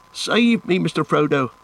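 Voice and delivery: high-pitched drowning plea; panicked high cry for help; gasping. A narrator's reading. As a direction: gasp it out, desperate for rescue. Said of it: "gasped Sam".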